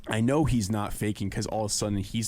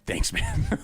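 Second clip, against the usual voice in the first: much higher, dry mock gratitude; sarcastic thanks; 4 dB louder than usual. Answering the friend who called him stupid, sarcastic and high. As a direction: toss back a fake thank-you.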